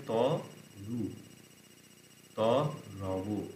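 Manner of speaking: ত and রু split apart with long pauses; syllable by syllable. Shown as a demonstration. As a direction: spell out ত, রু one piece at a time. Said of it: "এই রু সিলেবেলে পরিবর্তন হবে". (ধীরে ধীরে ভেঙে ভেঙে উচ্চারণ)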